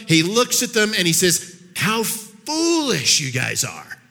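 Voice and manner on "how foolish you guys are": slow, drawn-out mild rebuke; exasperated interruption. Acted. Jesus finally interrupting the disciples, slow exasperation. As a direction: stretch it out in weary reproach. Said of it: "So he finally interrupts them".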